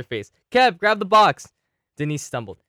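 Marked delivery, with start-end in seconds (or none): 0.5-1.5 higher, louder, slow urgent yell; urgent shout. Acted. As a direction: bellow the order across the fight. Urgent order mid-fight.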